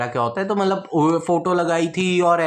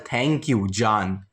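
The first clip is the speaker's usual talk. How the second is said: mocking sweet voice; 3 semitones lower, much slower than usual. Mocking her story caption.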